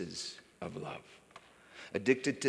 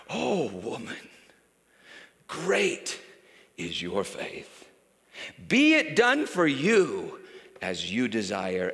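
tender Jesus; 4 dB louder, slower than usual. Acted. Jesus answers the kneeling woman.

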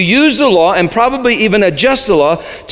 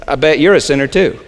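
teasing; 4 semitones lower, faster than usual. Shown as a demonstration. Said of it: "turn to your neighbor and say".

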